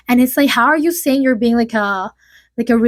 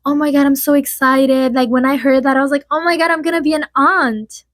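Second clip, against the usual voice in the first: slightly higher, eager retold reaction; mock excitement; 3 semitones higher than usual. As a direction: imitate a mildly excited soon-to-be aunt. Acting an excited interview answer.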